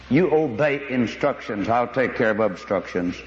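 steady as a controller talking a pilot down; lightly voiced calm controller; calm tower voice. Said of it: "very calmly said".

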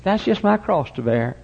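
a light mock sigh of a woman with a backache; lightly voiced long-suffering lady; imitating a complaining lady. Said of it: "and she says".

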